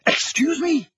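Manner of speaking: high-pitched incredulous bark. A narrator's reading. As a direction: snap the question with the pitch shooting up. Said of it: "barked the Prime Minister".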